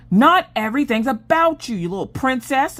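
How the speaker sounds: a hint of a teasing, put-out husband; mock husband voice. Husband teasing his wife, mock high snippy voice. Husband snapping back at her.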